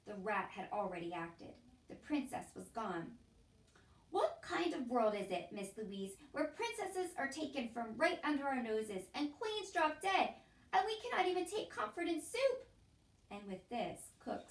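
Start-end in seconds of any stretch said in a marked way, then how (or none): 4.1-12.7 louder, rising despairing plea; despairing lament. A narrator's reading. Cook lamenting to Miss Louise, a rising despairing plea. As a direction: build up to a wail on soup.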